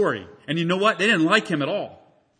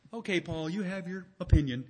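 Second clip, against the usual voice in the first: mild dismissal; 10 dB quieter than usual. Acted. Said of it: "he doesn't just say".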